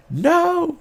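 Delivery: very high cry of dismay. Retold or imitated. Players watching the noblewoman die, high dismayed cry.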